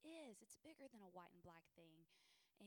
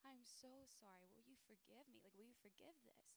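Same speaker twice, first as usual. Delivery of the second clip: retold apology; 3 semitones higher than usual. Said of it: "I just said".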